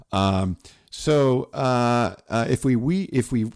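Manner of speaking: stumbling over words with numb lips. Real, not acted. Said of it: "It's like my lips are numb".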